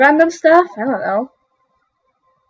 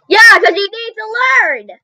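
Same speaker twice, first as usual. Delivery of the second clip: mock scolding; 9 semitones higher, 3 dB louder than usual. Teacher tells failed pupil to learn, mock scolding. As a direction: scold with exaggerated exasperation.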